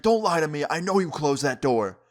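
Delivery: mock-angry insistence, pushing the opening words; retold accusation. Dad accusing his daughter's boyfriend, angry retelling.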